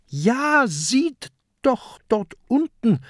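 high, eager exclamation; high-pitched, excited call; excited reply. A narrator's reading. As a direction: point it out urgently to a friend. Peter excitedly points out amulet.

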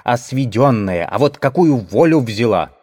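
loud, lively market woman; rapid chatter. Acted. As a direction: keep rattling on, loud and brisk. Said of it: "затараторила жена торговца".

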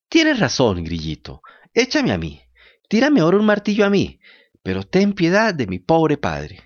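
put-on a wooden boy begging for his father; pleading puppet boy.

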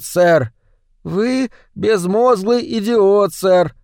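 громкий, выше, издевательский крик хозяина; дави на слугу, цедя оскорбления; злобный хозяин. Acted. (хозяин измывается над запуганным Шалопутой)

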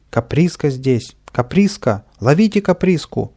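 loud rising call to catch him; shouting. Acted. Sergeant calling the crowd to catch Kapriska, loud shout. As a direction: raise the alarm in a loud shout. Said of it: "закричал сержант".

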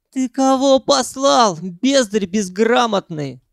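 high, slow outrage; indignant Sanyok. A narrator's reading. Sanyok outraged at being told off. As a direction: bristle at the insult.

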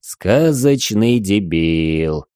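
slow, deadpan mocking echo; mocking repeat. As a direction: draw out the insult slowly. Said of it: "Игорь повторил слова Димыча".

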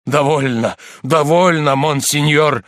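a touch of desperate entreaty; mild narrated plea; pleading. A narrator's reading. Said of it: "взмолился монах".

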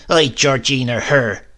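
grandmother crying out. A narrator's reading. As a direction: spit the name out with scorn. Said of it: "cried my grandmother".

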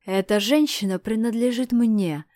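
loud angry bark with a punch on женщина. Acted. Askold barking at Dmitry to claim the woman, loud angry. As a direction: snap it out to claim her. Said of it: "рявкнул Аскольд".

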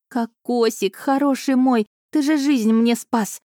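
high, squealing joy over the coconut; shrieking jackpot winner. A narrator's reading. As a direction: squeal it like you hit the jackpot. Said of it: "завизжала я от радости". (радостный визг, голос высоко)

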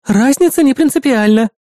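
high, prim displeased reply. A narrator's reading. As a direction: correct him with disapproval. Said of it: "недовольно ответила помощница".

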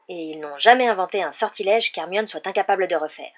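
loud, proud boast about Hermione; proudly. Acted. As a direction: puff up with pride for her. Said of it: "dit fièrement Hagrid".

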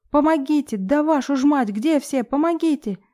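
испуганный крик о помощи, высоко; кричи, зовя на помощь в ужасе; паника. A narrator's reading. Героиня зовёт на помощь в панике. (испуганный крик о помощи)

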